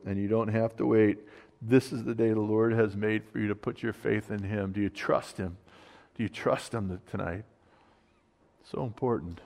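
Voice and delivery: quiet earnest plea; soft altar call. Acted. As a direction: gently invite the listener to trust.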